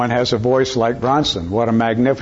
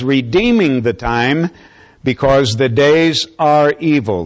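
raised, measured pulpit reading of scripture; declamatory Bible reading; 2 semitones higher than usual. Real, not acted. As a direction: proclaim the verse to the congregation phrase by phrase. Reads scripture aloud to congregation.

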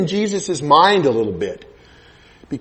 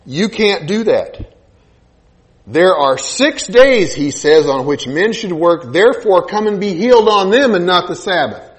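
mock indignant ruler. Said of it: "This guy gets up".

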